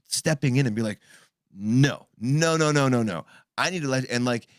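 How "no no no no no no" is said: firm refusal. Acted. Acting out stepping in to forbid.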